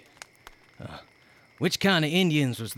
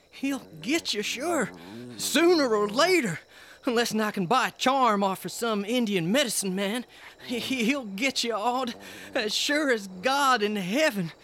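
high, hushed dread; fearful warning; 4 semitones higher, 4 dB quieter than usual. Acted. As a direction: warn her in fear. Husband's superstitious dread of Yig.

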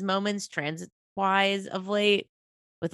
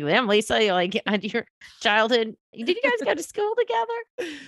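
surprised quote; 5 semitones higher than usual. Retold or imitated. Mock quote to a friend.

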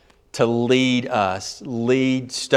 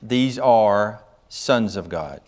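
measured, deliberate Bible reading with phrase breaks; solemn scripture reading. Real, not acted. Preacher reading scripture to the congregation, solemn and measured.

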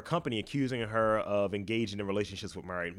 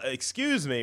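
timid; 3 semitones higher, slower than usual. Shown as a demonstration. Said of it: "you've already kinda pussied yourself".

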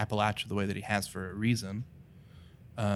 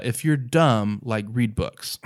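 blunt punchline; 7 dB louder, slower than usual. Real, not acted. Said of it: "I don't know how to say this tactfully".

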